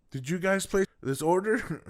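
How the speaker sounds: high-pitched mock interrogation; accusing mother. Mother questioning her kids about the order, accusing. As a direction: imitate a parent demanding a confession.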